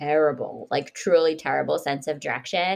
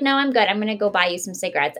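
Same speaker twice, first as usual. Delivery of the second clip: chipper eagerness; 2 semitones higher, faster than usual. Retold or imitated. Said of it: "She's like".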